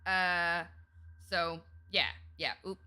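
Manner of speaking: put-on Southern accent. Streamer doing a Southern accent for chat, lightly put on. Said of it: "y'all get ten minutes with the accent starting now".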